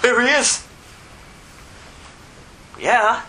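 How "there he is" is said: high-pitched demon cry; put-on high demon voice; startled demon. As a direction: pipe up as an alarmed demon. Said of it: "the demons in him go".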